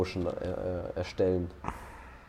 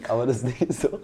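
breaking into laughter; cracking up mid-line; 5 semitones higher, 5 dB louder than usual. Real, not acted. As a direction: laugh through the words. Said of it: "sorry, ich muss kurz lachen".

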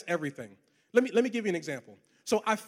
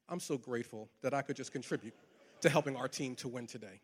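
soft, much quieter humble thanks; 7 semitones lower, 10 dB quieter than usual. Retold or imitated. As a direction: give the credit away gently. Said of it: "respond in a Christ-like manner".

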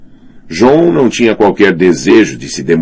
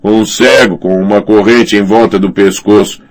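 gruff character voice; 5 semitones higher, 4 dB louder than usual. Acted. Character voice in audiobook.

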